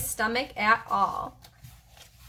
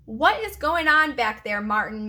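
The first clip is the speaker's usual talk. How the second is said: calling out; 3 dB louder than usual. Acted. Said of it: "Miss Victoria called out".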